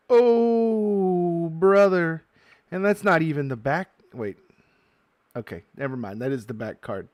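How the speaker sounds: loud, high, thrilled yelling; excited shouting. Real, not acted. Opening a pack for viewers, shouting loud and thrilled. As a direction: shout it out like a jackpot win. Pulls rare Japanese foil card.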